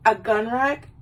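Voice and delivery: puzzled, rising mock disbelief; underwhelmed boyfriend querying the gift; baffled question. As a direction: ask it doubtfully, lifting the end.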